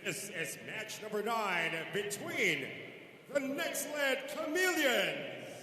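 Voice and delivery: big booming arena intro, words stretched out; game announcer. Real, not acted. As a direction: hype the crowd like a ring announcer. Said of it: "our game announcer".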